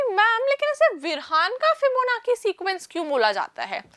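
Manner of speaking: put-on puzzled pupil; puzzled student. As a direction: voice a pupil querying the teacher. Teacher voices a puzzled student's question.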